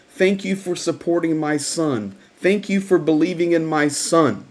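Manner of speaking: put-on Ma Rose, South African accent. Mother thanking Greg for honoring her son, imitated South African accent. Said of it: "in that South African accent".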